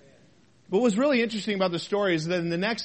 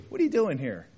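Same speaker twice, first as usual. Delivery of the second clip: gentle God; 5 semitones lower, faster than usual. Acted. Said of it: "At the lowest point of Elijah's ministry, God is saying".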